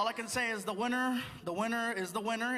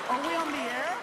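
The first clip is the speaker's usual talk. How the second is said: ordinary talk, nothing marked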